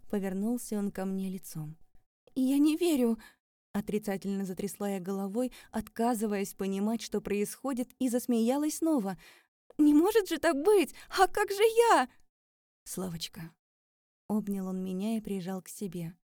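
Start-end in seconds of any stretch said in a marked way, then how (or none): 2.3-3.2 high, loud denial. Acted. Героиня отрицает. 9.8-12.1 very high, loud desperate cry. Acted. Героиня в отчаянии. 12.8-13.5 soft, low tender name. Acted. Сергей утешает героиню.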